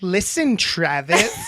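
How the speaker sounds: a touch of bold swagger; bad bitch confidence. Shown as a demonstration. Brother showing sister a confident bad-bitch read. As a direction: say it like you own the room, lightly. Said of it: "That is a bad bitch".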